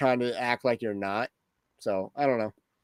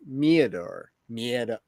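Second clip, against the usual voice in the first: normal talking voice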